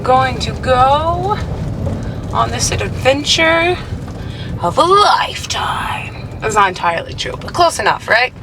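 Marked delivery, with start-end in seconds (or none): 0.0-6.4 slow, grand, building to a whispered shout on lifetime; hammed-up start of a big adventure; mock epic announcement. Setting off on the road trip, slow mock-epic voice.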